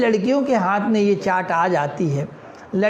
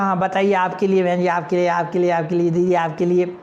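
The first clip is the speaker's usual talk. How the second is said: lightly voiced street vendor; chaat vendor. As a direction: sell to the girls eagerly. Vendor serving the girls.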